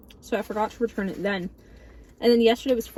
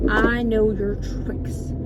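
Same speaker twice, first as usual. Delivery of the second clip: slow knowing taunt; much slower than usual. Real, not acted.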